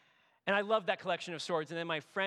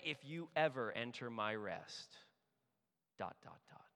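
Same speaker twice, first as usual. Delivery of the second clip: softer, dropping off into an exasperated silence; trailing frustration; 4 semitones lower, 4 dB quieter than usual. Acted. God leaving the oath unfinished, quietly exasperated. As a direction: let the threat hang unfinished. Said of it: "so frustrated with someone".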